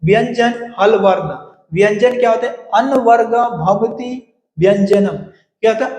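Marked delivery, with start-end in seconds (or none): 2.5-5.2 slow measured Sanskrit recitation; recited sutra. Shown as a demonstration. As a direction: intone the rule slowly, word by word. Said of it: "quoted rule, slow recitation".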